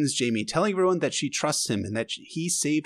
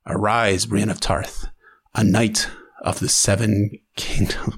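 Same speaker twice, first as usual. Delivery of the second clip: lower, measured oath; solemn knighting; 6 semitones lower than usual. Acted. Jaime knighting Brienne, low and solemn. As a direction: intone it like a knighting rite.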